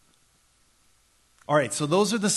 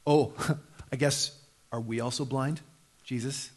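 smug; 3 dB quieter than usual. Acted. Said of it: "they smugly say to Jesus".

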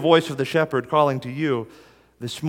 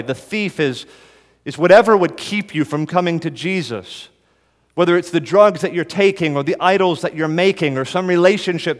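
higher, louder preaching; impassioned preaching; 4 semitones higher, 4 dB louder than usual. Acted. Preacher warning the congregation about the thief, forceful. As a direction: drive it home with force.

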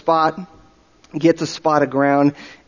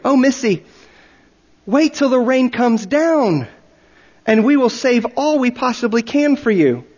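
put-on pitying old chief; 8 semitones higher than usual. A narrator's reading. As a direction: humour the poor mad missionary. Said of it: "said in a tone of sympathy approaching pity".

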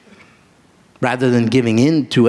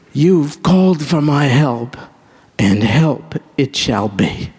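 voice of Jesus. Retold or imitated. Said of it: "He'll say".

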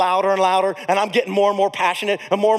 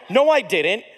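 shocked denial; slower than usual. Retold or imitated. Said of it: "the look of shock on my face".

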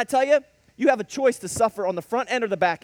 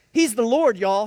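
louder emphatic quote of a fellow preacher; imitating Mister Card; 2 semitones higher, 5 dB louder than usual. Preacher quoting Mister Card with a louder emphatic ring. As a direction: echo the deacon's bold declaration. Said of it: "Mister Card said".

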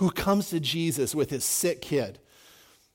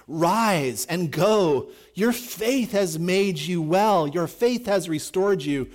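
slow solemn Jesus; 2 semitones higher, 3 dB louder, much slower than usual. Acted. Preacher voicing Jesus healing.

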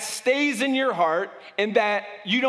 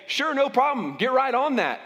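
higher-pitched, falsely agreeable reply; passive-aggressive agreeableness; 5 semitones higher than usual. Acted. Employee answering the boss's request, passive-aggressively agreeable. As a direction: agree readily, as if there's no issue at all. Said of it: "a passive-aggressive person will say".

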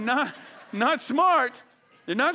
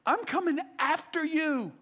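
lightly acted, higher-pitched calling voice; concerned shepherd; 8 semitones higher than usual. Shepherd to straying sheep near wolves, mildly urgent. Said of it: "and he's like".

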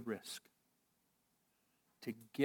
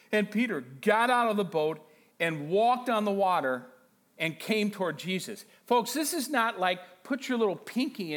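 higher, energetic preacher voice; animated preaching; 6 semitones higher, 6 dB louder than usual. Acted. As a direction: tell the miracle with driving energy. Preaches at full force.

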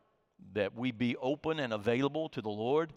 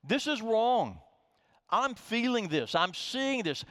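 raised, pleading voice of a lament; lamenting prayer; 8 semitones higher than usual. Pretend. A psalmist crying out to the Lord, pleading. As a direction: cry out your complaint to God. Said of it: "where we say".

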